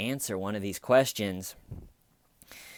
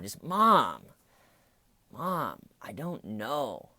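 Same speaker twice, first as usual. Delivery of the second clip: annoyed; 3 semitones higher, slower than usual. Retold or imitated. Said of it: "And just annoyed".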